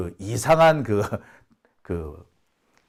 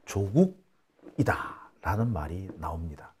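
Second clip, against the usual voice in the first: whisper; 7 semitones lower, 9 dB quieter, slower than usual. Real, not acted. Confiding political gossip.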